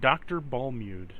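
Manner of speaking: mechanical name readout; robot guard repeating a name. Acted. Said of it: "that robot voice".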